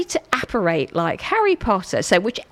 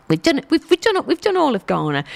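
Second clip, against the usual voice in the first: excited; 6 semitones higher, faster than usual. Real, not acted. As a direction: celebrate finishing the country. Celebrating finishing Ghana.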